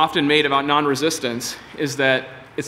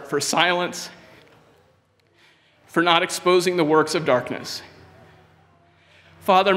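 earnest prayer; 2 semitones higher than usual. Real, not acted. Preacher leads the congregation in a closing prayer, earnest and pleading. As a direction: plead with God for mercy and courage.

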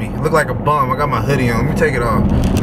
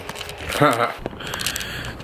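laugh; 8 dB quieter than usual. Real, not acted. Laughs after remarking everyone saw.

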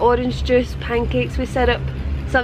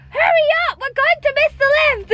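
impatient shouting. Retold or imitated. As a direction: bark it like a fed-up friend. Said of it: "they were pure shouting each other".

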